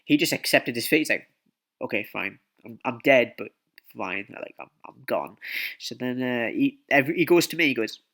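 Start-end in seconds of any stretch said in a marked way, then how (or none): 1.8-5.4 resigned. Retold or imitated. Caught friend accepting his fate.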